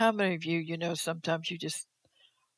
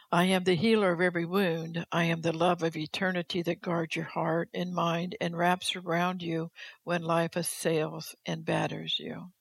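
firm, deliberate words from God; measured pulpit proclamation; solemn declaimed reading. Acted. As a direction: proclaim it, slowing towards the close. Reads God's words aloud to congregation.

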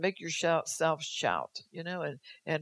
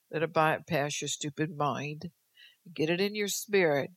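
prophetic preaching. Acted. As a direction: proclaim as God's voice, firm and rising. Prophetic word in God's voice.

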